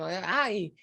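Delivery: put-on light Argentine Spanish accent. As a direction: slip into a little Argentine lilt. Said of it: "I put my little Argentine".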